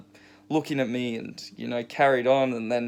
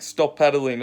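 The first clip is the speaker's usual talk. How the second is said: imitated Moroccan accent; lightly put-on Moroccan accent, as an order; 3 semitones higher than usual. Moroccan surfer telling him to stop, imitated Moroccan accent. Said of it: "in a Moroccan tone".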